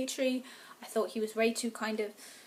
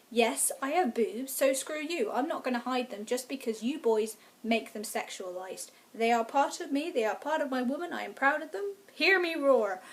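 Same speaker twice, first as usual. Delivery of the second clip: defiant pride. Retold or imitated. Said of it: "She kind of has it like".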